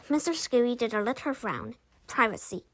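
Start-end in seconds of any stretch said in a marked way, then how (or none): 2.1-2.6 teacher repeating the right word; teacher correction. A narrator's reading. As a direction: model the word Privacy. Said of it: "he said".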